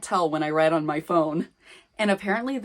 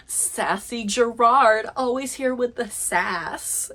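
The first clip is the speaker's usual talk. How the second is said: mock sassy fan; 6 semitones higher, 4 dB louder, slower than usual. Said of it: "people being like".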